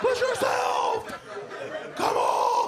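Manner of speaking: very high slow yelled push; hammed-up trainer shout. TV trainer yelling at a contestant, hammed-up shout. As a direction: bellow it like a drill coach.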